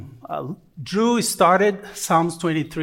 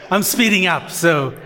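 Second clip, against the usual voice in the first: talking fast; 2 semitones higher, faster than usual. Real, not acted. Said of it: "I'm gonna talk fast".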